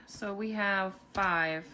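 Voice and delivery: ordinary talk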